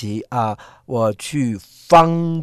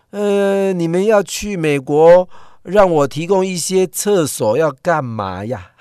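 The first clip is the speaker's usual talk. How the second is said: baffled foreign woman; 5 semitones higher, 3 dB louder, slower than usual. Retold or imitated.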